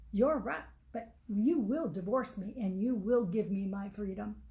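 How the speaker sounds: firm, insistent, punching each demand; a husband laying down the law; hammered-out, insistent demand; very emphatic. Acted. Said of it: "Arvin said very emphatically".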